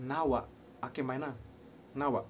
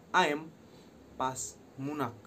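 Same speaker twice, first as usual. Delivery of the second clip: snapped insult demo; much slower than usual. Shown as a demonstration. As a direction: hurl the insult, then drag it out. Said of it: "dengan sebutan gini".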